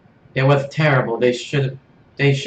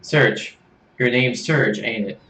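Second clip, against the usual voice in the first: Australian accent, badly done; attempted Australian accent; slower than usual. Kit greeting Serge in a shaky Australian accent. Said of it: "I thought you were supposed to be Australian".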